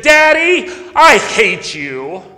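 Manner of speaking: put-on frustrated child. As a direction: blurt it like an angry six-year-old. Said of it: "so frustrated that he said".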